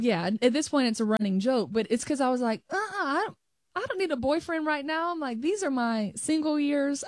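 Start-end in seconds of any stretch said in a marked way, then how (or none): 2.7-7.0 mock sassy refusal. Quoting her younger self refusing boyfriends.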